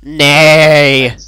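half-hearted spoken neigh; drawn-out mock horse neigh; horse impression. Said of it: "I'm a horse".

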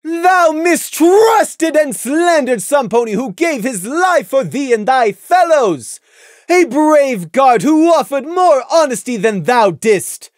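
high, loud, slow scolding; furious princess reproach; stern royal rebuke. A narrator's reading. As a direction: condemn him from the throne. Luna rebukes Prey.

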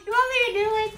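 high-pitched, tearful laughter through the words; laughing hard. Real, not acted. Girlfriend teasing upset gamer boyfriend, laughing hard. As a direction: protest while still helpless with laughter. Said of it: "why you're laughing so much".

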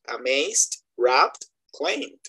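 amazed, wrapped, claimed with no added syllable; correct -ed pronunciation. Shown as a demonstration. Teacher listing right forms, amazed, wrapped, claimed without sounded E. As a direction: close amazed, wrapped, claimed straight on the final consonant. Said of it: "Entonces sería".

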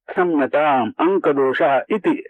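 slow, gentle, formal Sanskrit phrase. Retold or imitated. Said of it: "असे हळुवार पर्याय".

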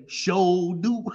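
drawn-out, weighty "Sure do"; Shell Wakefield's sure do. Retold or imitated. Quoting a friend's solemn agreement, drawn out. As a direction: lean on it like a solemn amen. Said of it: "that's serious business when they say it like that".

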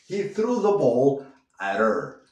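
"at her" run together with the h dropped, "aɾ er". Shown as a demonstration. Teacher showing the relaxed native linking to learners. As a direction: let "her" lose its h and link to "at". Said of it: "puedes comerte la H y dices".

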